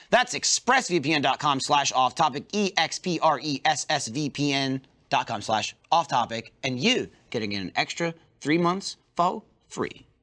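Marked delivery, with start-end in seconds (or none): 0.1-2.4 slow, spelled-out sponsor URL; slow careful ad read. Shown as a demonstration. Host reading the sponsor URL out slowly for listeners. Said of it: "I know what it is". 2.5-6.1 spelled out letter by letter. Shown as a demonstration. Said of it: "I know what it is". 6.1-9.0 slow, spelled-out sponsor URL; slow careful ad read. Shown as a demonstration. Host reading the sponsor URL out slowly for listeners. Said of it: "I know what it is".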